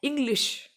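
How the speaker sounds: इंग्लिश said with a ringing final sh; teacher models इंग्लिश; careful English. Shown as a demonstration. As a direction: lean on the sh at the end of इंग्लिश. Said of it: "इसकी भी एक trick है".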